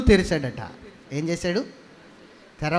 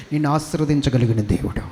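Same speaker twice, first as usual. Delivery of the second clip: ordinary talk, nothing marked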